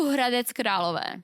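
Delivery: "Hradec Králové" rolled off the tongue; native Czech pronunciation. Real, not acted. Czech host names the town for co-host, "Hradec Králové" in fluent Czech. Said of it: "roll that off the tongue like you just did".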